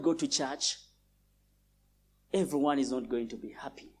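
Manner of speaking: low, soft, smug bragging voice; a proud young churchgoer showing off, quietly; boastful youth. Retold or imitated. Preacher mimics an arrogant youth, low and smug. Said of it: "You hear that kind of esteem?".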